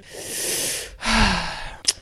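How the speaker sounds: long weary breath out before going on; exasperated sigh. Real, not acted. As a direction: let out a fed-up sigh. Exasperated at men, rant.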